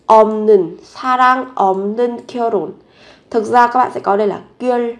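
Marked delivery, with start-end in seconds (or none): 0.1-2.7 없는 said with its changed sound, as "eomneun"; sound change demo. Shown as a demonstration. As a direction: demonstrate 없는 pronounced "eomneun". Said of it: "biến âm là thành".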